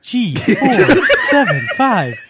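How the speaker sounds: flat weary sighing clerk calling numbers; slow, bored counter clerk announcement; DMV clerk voice. Shown as a demonstration. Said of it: "Have you heard my D M V voice?".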